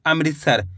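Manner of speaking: अमृतसर read as "am-rit-sar"; correct pronunciation. Shown as a demonstration. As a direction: give अमृतसर a clear "rit" in the middle. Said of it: "इस तरीके से पढ़ना है".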